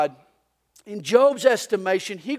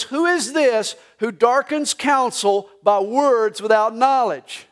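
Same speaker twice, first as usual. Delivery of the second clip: voice of God; 4 dB louder than usual. Acted. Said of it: "he says".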